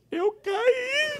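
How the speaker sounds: put-on very high child voice; little boy. Son answering his mother in a tiny high voice. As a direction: squeak it like a hurt little kid.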